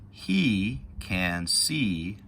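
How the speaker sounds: put-on slow, clear read-aloud for kids; deliberate storybook reading; reading to children. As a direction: read each word slowly as you point. Reading picture book to kids.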